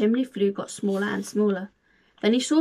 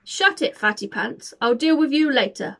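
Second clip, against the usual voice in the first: higher, louder bark; 3 semitones higher, 4 dB louder than usual. Acted. Hunter barking at Santa, loud bark. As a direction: snap at Santa to shut up. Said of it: "barked the hunter".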